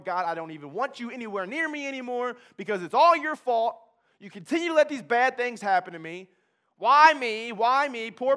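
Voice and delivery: loud, bitter rant lifting to a cry of why me; angry at God. Retold or imitated. Addict yelling at God that it's all his fault, loud and bitter. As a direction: shout your blame up at God.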